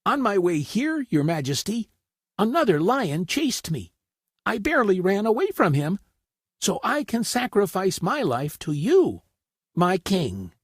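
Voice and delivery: high, nervous little rabbit voice; a scared rabbit pleading; frightened rabbit. A narrator's reading. Rabbit pleading with the lion, high and nervous. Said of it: "replied the terrified rabbit".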